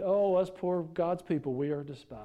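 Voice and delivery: milk it like a martyr at a press conference; mock self-pity. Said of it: "And then he said".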